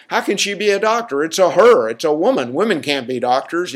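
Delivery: lightly voiced indignant little kid; mock small-child objection to mom; imitating childhood self. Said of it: "I kept saying to my mom".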